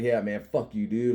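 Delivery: easygoing cursing between buddies; relaxed, affectionate brush-off; casual, friendly. Shown as a demonstration. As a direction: toss it off with no anger. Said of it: "like that".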